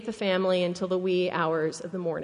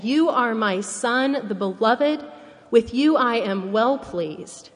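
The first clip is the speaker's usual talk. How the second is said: slow, slightly raised divine proclamation; booming voice of God; 4 dB louder than usual. Acted. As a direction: proclaim it slowly, with a touch of a boom. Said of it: "God's great booming voice saying".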